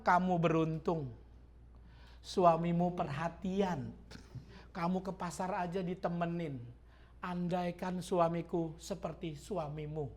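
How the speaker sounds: soft, slow, hushed voicing of the friends; envious friends' gossip. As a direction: murmur it like admiring gossip. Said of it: "kata temennya".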